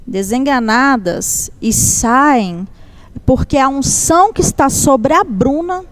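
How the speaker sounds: slow, deliberate relayed message from God; solemn prophecy. Retold or imitated. Church sister relays God's message to a mother, slow and solemn. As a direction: deliver it phrase by phrase, with weighty pauses.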